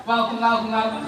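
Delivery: loud welcome. Real, not acted. Host welcomes band to crowd.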